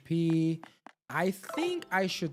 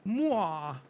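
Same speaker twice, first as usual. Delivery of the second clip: excited character; 9 semitones higher, 3 dB louder, slower than usual. Acted. Reading character dialogue.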